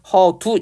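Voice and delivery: 허두, the ㅅ of 헛 turned to d; representative sound, linked. Shown as a demonstration. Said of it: "이게 연음이 되는".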